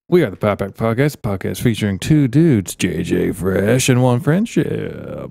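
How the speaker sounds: drawn-out show intro announcer; hammy host opening; podcast intro. Pretend. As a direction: announce the show, stretching the last words.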